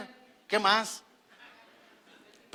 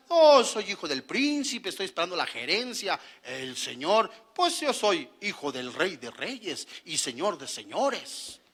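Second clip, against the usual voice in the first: mock arrogant believer; 4 semitones lower than usual. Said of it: "Pero cuando estás".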